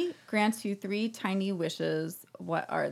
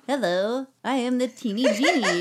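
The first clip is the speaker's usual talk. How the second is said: laughing genie voice; cheery little genie greeting; 4 semitones higher, 3 dB louder than usual. Acted. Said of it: "a genie voice".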